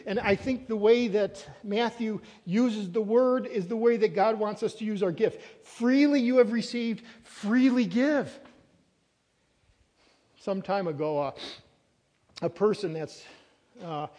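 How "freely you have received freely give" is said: "Freely" set out firmly, slowing right down on "freely give"; stress on Freely. Shown as a demonstration. Preacher quoting Matthew to the church, emphasis on "Freely". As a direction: lean on each "Freely", stretching the last phrase. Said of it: "the emphasis is on freely".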